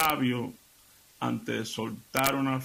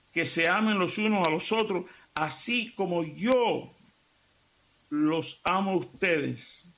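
preaching; 4 semitones higher than usual. Acted. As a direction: proclaim the commandment to the radio flock. Preaches Jesus' commandment aloud.

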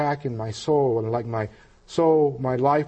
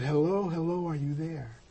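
soft retold phone hello, trailing quieter; softly voiced caller, fading at the end; gentle checking; 5 dB quieter than usual. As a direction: check gently whether anyone is listening. Caller checks on silent listener.

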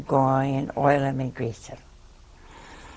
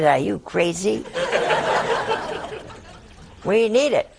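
mock indignant mother; 4 semitones higher than usual. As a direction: play the fiery Italian mother. Mother scolds, Italian eyes.

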